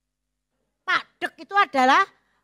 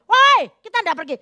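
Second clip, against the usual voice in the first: raised-voice mock holler; mock yelling; 5 semitones higher, 4 dB louder, faster than usual. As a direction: imitate a husband calling out, pitched up. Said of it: "suami teriak-teriak".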